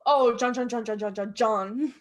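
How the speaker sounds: loud opening, rattled-off repeats; mock condescension. Imitating Delco kids who claim Philly, condescending. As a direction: parody smug locals showing off their slang. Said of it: "are, like, condescending about it".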